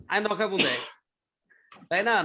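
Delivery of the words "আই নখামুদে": lightly voiced Chittagong dialect; a casual imitation of a Chittagong speaker; hint of Chittagong accent. Shown as a demonstration. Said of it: "চিটাগাংয়ের মানুষ বদ্দা".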